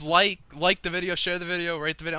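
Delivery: YouTuber outro voice. Retold or imitated. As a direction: sell it like an eager YouTuber. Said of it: "they're like".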